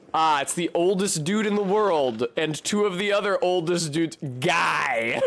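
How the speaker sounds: a real burst of delight; excited shout. Real, not acted. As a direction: call it out with glee at the sight. Spotting the old monks on screen.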